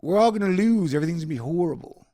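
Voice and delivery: loud, high whiny mock panic; mock despair. Mocking people who gave up, loud whiny panic. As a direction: wail like everyone has given up.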